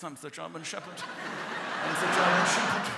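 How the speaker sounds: slow proud strut voice; German shepherd voice. Pretend. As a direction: strut it like a big dog.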